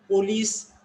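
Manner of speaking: police with a full O, POH-lees; imitating the wrong police, "poh-lees"; others' mispronunciation. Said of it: "Whether other people are saying".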